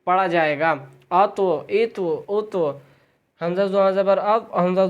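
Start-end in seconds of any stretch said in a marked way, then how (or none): 1.1-2.7 اتو with a full-mouth ط bounced back; اتو, the ط heavy with a short echo. Shown as a demonstration. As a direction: fill the mouth and rebound the ط of اتو. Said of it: "آواز بھی لوٹے گی اور منہ بھر کر بھی".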